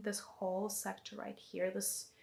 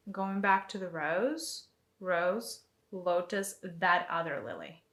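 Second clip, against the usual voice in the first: counting the movement; much slower than usual. Shown as a demonstration. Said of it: "this is what the movement should be".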